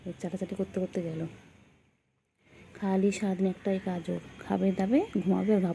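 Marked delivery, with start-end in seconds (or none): 2.7-5.7 exasperated complaint. Real, not acted. Scolding complaint about the pet.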